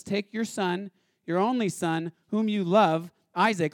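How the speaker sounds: each phrase of "take your son" pressed a little harder; pressing on. Acted. God commanding Abraham to give his son, pressing on. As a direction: press on "only son" and "whom you love". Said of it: "he really starts to press on".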